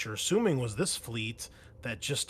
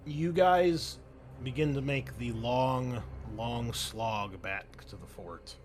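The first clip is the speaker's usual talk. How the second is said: game master narration; 3 dB quieter than usual. Acted. Game master describes the war-torn city, narrating. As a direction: draw out the description of the ruins.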